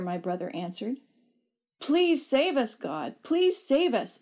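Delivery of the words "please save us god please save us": pleading shout. A narrator's reading. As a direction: beg to be saved at the top of the voice. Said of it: "I kept shouting".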